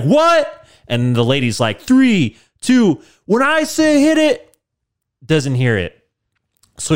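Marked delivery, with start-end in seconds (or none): 0.0-0.7 much higher squeaky loud what; confused shout. Acted. Vin Diesel can't hear Mark at the start, high baffled yelp. 1.8-4.5 much higher, loud shrieking countdown; slow high mock announcer squeal; countdown lady. Lady starts the race countdown, high loud mock voice.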